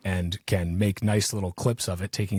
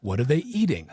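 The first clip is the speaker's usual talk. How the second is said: gleeful official; 6 semitones higher than usual. Retold or imitated. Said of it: "And he's so gleeful".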